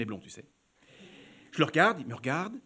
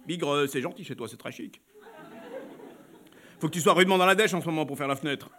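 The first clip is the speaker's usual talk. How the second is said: mocking man; 3 semitones lower than usual. Client's voice again.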